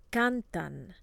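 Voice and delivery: "Cantan" with the weight on CAN; stress next to last syllable. Shown as a demonstration. Teacher models the rule for repeating, stress next to last syllable. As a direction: lean on the first syllable of "Cantan". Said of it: "stress next to the last syllable".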